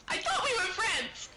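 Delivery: laughing through the words; giggly, teasing protest. Real, not acted. Teasing about friendship.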